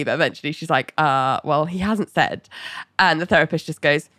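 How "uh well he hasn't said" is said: lightly imitated reluctance, hesitant start; reluctant. Ali admitting he has not said, reluctant. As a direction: admit it haltingly, a touch of unwillingness. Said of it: "reluctant to say".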